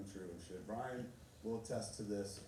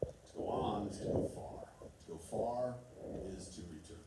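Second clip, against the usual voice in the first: reciting a proverb; 3 semitones lower than usual. Shown as a demonstration. Quoting Lao Tzu's proverb to the audience, measured and solemn. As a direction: read it like ancient wisdom. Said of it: "the English translation goes something like this".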